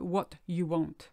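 "What you want." said slowly, word by word; word-for-word gloss, unhurried; slow literal translation. Shown as a demonstration. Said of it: "We actually say".

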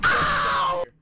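high, loud call of a name; excited calling out. Real, not acted. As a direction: shout the name to get his attention.

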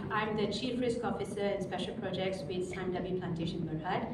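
hoarse voice from the flu; raspy, still recovering from flu; raspy whisper. Real, not acted. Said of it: "excuse my voice, I'm just still recovering from the flu".

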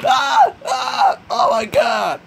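very high shrieking scream; terrified scream. Real, not acted. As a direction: scream in sudden terror. Jump scare, shout heard.

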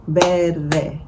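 verde split as ver-de; syllable by syllable. Shown as a demonstration. Teacher showing how to clap syllables, verde in two beats. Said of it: "clap out the syllables".

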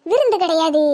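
low, chuckling aside; sly laugh. Acted. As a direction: laugh to yourself at the secret. Villainous aside after hinting at poison.

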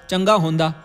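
Punjabi "होंदा" in place of "होता"; Punjabi accent. Shown as a demonstration. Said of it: "वहाँ अशुद्धता क्या है?". (पंजाबी लहजे में)

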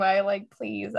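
ordinary talk, nothing marked

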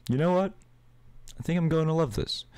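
high, fast, gleeful god of the dead; delighted Hades. Acted. Hades delighted by the baby girl, gleeful and high.

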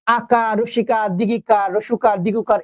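very slow, item by item; slow listing. Shown as a demonstration. Teacher slowly listing vowel signs for the class. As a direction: draw each name out slowly. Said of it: "listing vowel signs".

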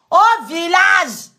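slow, scornful repetition; mocking drawl. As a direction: drag it out with contempt. Mocking the rival's village.

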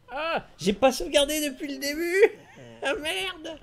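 high, loud laugh-cry of dismay; laughing despair. Real, not acted. Streamer to chat after losing progress, laughing despair. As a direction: laugh and wail at your own mistake. Realizes he never saved since start.

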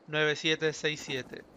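cifras una a una, muy despacio; código dictado despacio. Shown as a demonstration. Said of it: "aquí está el código de acceso". (dictando el código muy despacio)

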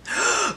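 a quick startled intake of breath; sharp surprised gasp. Real, not acted. Reading fan facts, she gasps in surprise. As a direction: gasp at what she just read.

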